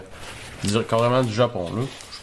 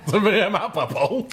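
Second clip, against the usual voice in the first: laughing; 6 semitones higher than usual. Real, not acted. Laughing at bad taste.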